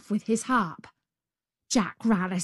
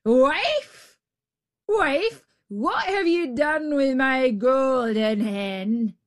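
booming ogre call, high and loud; 5 semitones higher, slower than usual. A narrator's reading. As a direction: bellow for the wife. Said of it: "he heard him calling".

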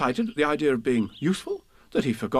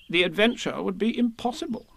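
solemnly; 9 semitones higher than usual. A narrator's reading. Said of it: "said Rabbit solemnly".

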